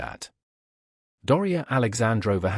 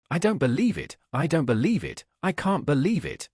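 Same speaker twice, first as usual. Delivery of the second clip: a touch higher, insistent disbelief; Dolly pleading that she cannot believe it; agitated disbelief; 3 semitones higher than usual. Acted. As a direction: refuse to accept it, voice lifting.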